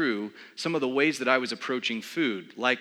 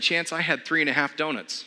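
a laughing, slightly higher admission; sheepish confession; 4 semitones higher than usual. Retold or imitated. Confessing his breakfast to his trainer friend, laughing sheepishly. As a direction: own up to it with a guilty laugh.

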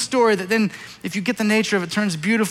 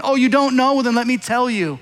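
higher, louder sarcastic challenge; biting sarcasm; 5 semitones higher, 3 dB louder than usual. Acted. Preacher voicing God taking Job to task, raised sarcasm. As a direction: throw it back sarcastically, raised voice. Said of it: "in biting sarcasm".

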